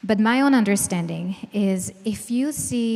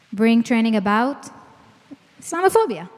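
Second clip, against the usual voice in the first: mock retort; 5 dB louder than usual. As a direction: toss it back like a reflexive rebuttal. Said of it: "what's the immediate reaction?".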